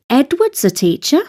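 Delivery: emphasis on the opening word "Edward's"; stress on Edward. Shown as a demonstration. Teacher translating an emphatic sentence, stress on "Edward's". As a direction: hit "Edward's" first, leave "teacher" lighter. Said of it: "The first word is the emphasised part".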